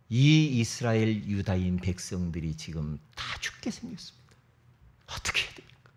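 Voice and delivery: a hushed and anxious petition; pleading queen. Acted. Esther pleads for her people.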